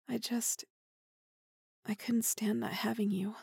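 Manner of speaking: obsessive whisper. Acted. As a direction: whisper the craving. Confessing obsession.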